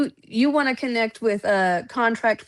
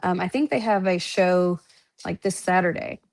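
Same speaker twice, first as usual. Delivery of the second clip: ordinary delivery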